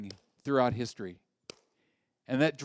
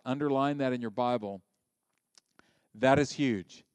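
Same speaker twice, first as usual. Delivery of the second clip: ordinary delivery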